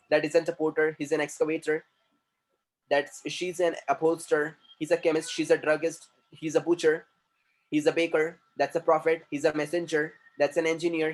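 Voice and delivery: reading each word sentence clearly; slow vocabulary drill. Shown as a demonstration. Teacher reading vocabulary sentences to class.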